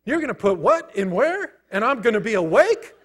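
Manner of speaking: mock panic at the doctor's plan; freaking out. A patient panicking at the doctor, hammed-up alarm. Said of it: "I'm freaking out".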